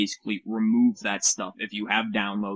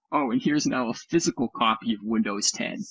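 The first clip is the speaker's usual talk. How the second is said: mock Microsoft. Voicing Microsoft again.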